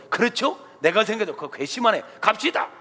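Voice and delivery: a hint of eager flattery; fawning servant. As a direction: agree eagerly to please the boss. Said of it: "잘 보이기 위해서". (상관에게 잘 보이려는 아첨하는 부하)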